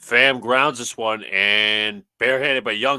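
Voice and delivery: loud, drawn-out live call; play-by-play call. Real, not acted. Announcer following a ground ball, loud play-by-play. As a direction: ride the play as it unfolds.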